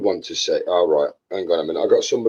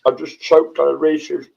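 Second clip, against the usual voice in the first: slower, clearer, still choking a bit; slow clear repeat; 7 semitones higher than usual. Real, not acted. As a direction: repeat it slowly so they hear.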